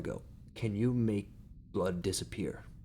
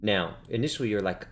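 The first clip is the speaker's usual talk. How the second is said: usual speaking voice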